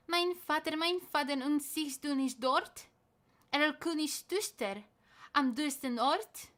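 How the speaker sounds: mild panic; frightened child. Acted. Boy asking father about Erlking's daughters, frightened.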